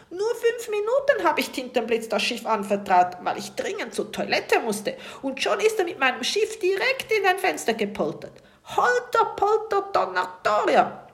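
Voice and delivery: viel höher und lauter, langsam; wütend lospoltern; polternd. A narrator's reading. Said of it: "wittert er weiter". (Kapitän poltert laut über den Tintenfisch)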